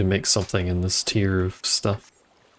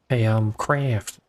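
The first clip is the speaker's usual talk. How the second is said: put-on Boston accent. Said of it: "with a shitty Bostonian accent".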